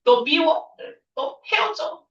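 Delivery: hammed-up angry girlfriend, pitch flying up; bad way to argue. Shown as a demonstration. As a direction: girlfriend snapping in a mock tantrum. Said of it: "이러시면 안 돼요".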